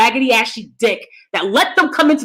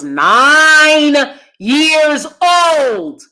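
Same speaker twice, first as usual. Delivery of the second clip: outraged emphasis; 5 semitones higher, 7 dB louder, much slower than usual. Real, not acted. Outraged at abuse as child.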